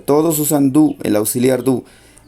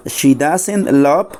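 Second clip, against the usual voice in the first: slow model phrase; much slower than usual. Shown as a demonstration. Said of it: "Porque en la negativa".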